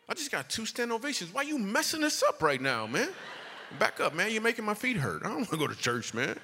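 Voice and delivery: high-pitched mock whining protest; exasperated complaint. Comic privately balking at the manager's church invitation, exasperated.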